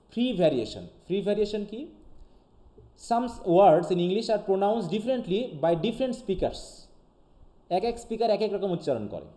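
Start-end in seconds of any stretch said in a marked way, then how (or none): 3.1-6.6 slow, careful English read-aloud; slow dictation read. Shown as a demonstration. Teacher reading the definition slowly to students.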